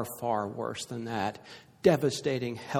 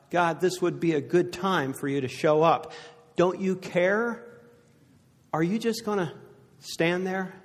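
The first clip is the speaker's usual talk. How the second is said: crying out to God; 4 semitones higher than usual. Retold or imitated. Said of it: "Maybe you cry out".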